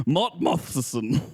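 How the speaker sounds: Mott Mothson said slowly, drawn out; Australian vowels. Pretend. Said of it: "how it's usually pronounced out in rural Australia".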